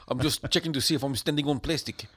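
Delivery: film line in a put-on South African accent. Shown as a demonstration. Demonstrating the only way he does South African accent. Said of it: "South African's one of them accents".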